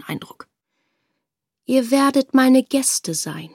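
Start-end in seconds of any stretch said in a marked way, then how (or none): 1.7-3.5 langsam, lauter, feierlich bestimmend; gebieterischer König. Acted. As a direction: der König verfügt gnädig, doch unnachgiebig. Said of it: "sagte der König". (König bestimmt über die Tochter, gebieterisch)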